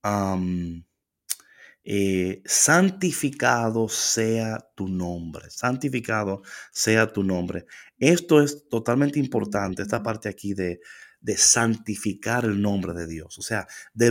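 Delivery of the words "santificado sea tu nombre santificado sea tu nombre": slow prayer recitation. Shown as a demonstration. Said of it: "dice el texto".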